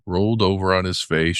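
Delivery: usual speaking voice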